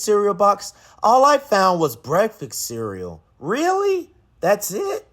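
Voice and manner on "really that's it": high, let-down really; disappointed disbelief. Acted. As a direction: sound let down and surprised. Alexander's disappointment.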